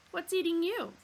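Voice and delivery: loud, high, gloating jab; malicious grin. Acted. Zaphod mocking Arthur over steak, malicious grin. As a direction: grin and needle him. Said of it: "malicious grin".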